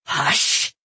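whispered hush; urgent shushing. Acted. Jeweler silences the girl near his sleeping family, whispering. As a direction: shush them under the breath.

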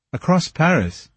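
a touch of shocked hoarseness; hoarse question. A narrator's reading. Poor Raoul questions the commissary about the carriage, slightly hoarse. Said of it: "in a hoarse voice".

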